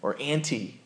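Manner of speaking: put-on soft little child calling daddy; sweet tug of a small child; child's voice. Preacher imitating a little child calling a parent, softly. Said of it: "strength that is in the voice of a little child".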